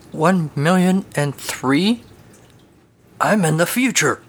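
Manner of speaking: high, slow panicked shriek. Acted. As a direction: shriek it, losing the macho front. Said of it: "Tux shrieks".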